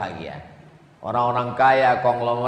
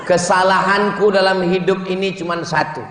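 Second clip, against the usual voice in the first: passionate vow; 3 semitones higher than usual. Acted. Husband's loving reply acted.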